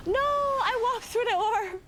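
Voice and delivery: high, slow, wailing dismay. Real, not acted. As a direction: groan it out in disbelief. Accidentally walked through the orb.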